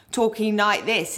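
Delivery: lightly mimicked Cockney guv'nor; a hint of mock South East London Cockney; South East London accent. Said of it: "as if he was a governor from South East London".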